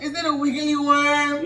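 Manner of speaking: put-on slow, high, loud kid voice; curious little son. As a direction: imitate a small child asking. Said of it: "So my son like".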